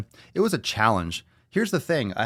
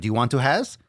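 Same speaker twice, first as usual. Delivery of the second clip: put-on broken-English accent; 4 semitones higher, 3 dB louder than usual. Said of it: "With that accent".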